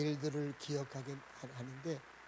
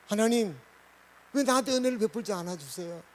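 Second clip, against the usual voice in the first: mildly raised, questioning plea to God; pleading complaint prayer; 3 semitones higher, 5 dB louder than usual. Acted. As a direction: act out an honest protest in prayer. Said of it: "이렇게 하나님 앞에 기도하는 거예요".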